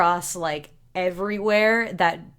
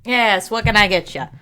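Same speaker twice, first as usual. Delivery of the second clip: lightly voiced barkeep; casual bartender taking an order; a hint of a tavern-keeper's voice. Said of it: "I don't know why that's the voice".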